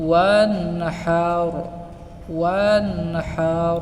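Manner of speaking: "ওয়ানহার" chanted with a light airy ha; the correct "ওয়ানহার"; soft ha. Shown as a demonstration. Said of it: "কিন্তু এখানে হবে".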